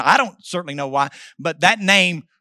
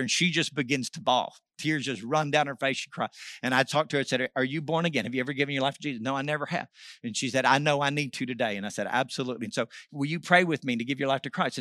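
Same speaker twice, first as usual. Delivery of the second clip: hushed tender; 5 semitones lower, 8 dB quieter than usual. Real, not acted. Tender moment leading girl to Christ.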